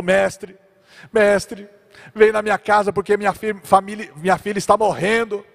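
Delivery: father pleading for his dying daughter; urgent plea. Retold or imitated. Jairus begs urgently. (pai suplicando com urgência)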